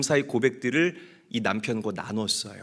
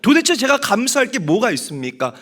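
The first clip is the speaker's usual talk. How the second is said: raised, louder, pleading protest; exasperated complaint to God; 7 semitones higher, 4 dB louder than usual. Retold or imitated. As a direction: complain to God, fed up and loud. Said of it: "하는데". (하나님께 따지듯 언성을 높여 불평하는 아내)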